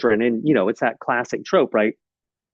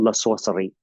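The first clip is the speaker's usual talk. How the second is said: French accent; 2 semitones lower, faster than usual. Shown as a demonstration. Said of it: "you know, my French accent".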